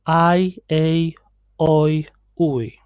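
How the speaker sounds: "I, A, Oi, Ui" each ending in an ee glide; vowel drill, final Y said like "E"; Y as Spanish I. Shown as a demonstration. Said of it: "like a Spanish I".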